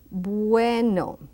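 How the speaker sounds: bueno with a very soft B, lips barely meeting. Shown as a demonstration. Teacher showing learners bueno with a soft B. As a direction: soften the B of bueno almost to a W. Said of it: "a very soft B".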